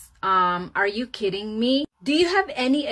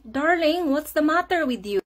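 higher, quick worried question; concerned wife; 5 semitones higher than usual. Retold or imitated. Wife asking her crying husband, concerned. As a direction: ask it with wifely concern, pitched up.

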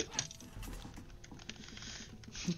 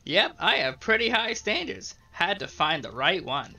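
high sprite voice; 3 semitones higher than usual. Acted. Voicing the green sprite.

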